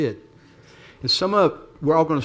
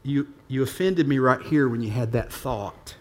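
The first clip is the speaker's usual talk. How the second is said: gentle God's voice; 2 semitones lower, 3 dB quieter than usual. Pretend. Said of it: "he's so gentle".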